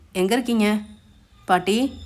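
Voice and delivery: respectful calling out. A narrator's reading. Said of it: "குரலில் மிகுந்த மரியாதையோடும் பாசத்தோடும்".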